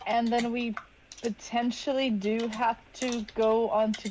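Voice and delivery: careful, measured, with halting pauses; hesitant. Acted. Character urges a grieving companion to move on, hesitant. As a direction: pick the words cautiously, pausing between phrases. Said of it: "not sure how to say the words".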